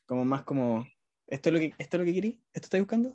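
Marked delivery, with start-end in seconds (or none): 1.3-3.1 fast, rising, questioning voice; inquisitivo. Retold or imitated. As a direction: quiz your partner playfully. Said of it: "soy inquisitivo". (voz inquisitiva y rápida)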